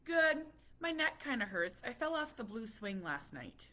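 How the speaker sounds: put-on high, loud chirpy kid voice; lightly voiced chirpy four-year-old. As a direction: chirp it out like a small boy. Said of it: "He's like".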